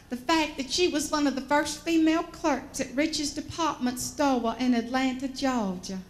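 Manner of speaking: put-on genteel old Atlanta Southern accent; imitated Georgia accent, R's dropped; Aunt Josie. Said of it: "She talks like this".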